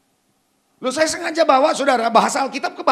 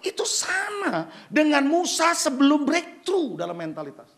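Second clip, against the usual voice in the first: ordinary delivery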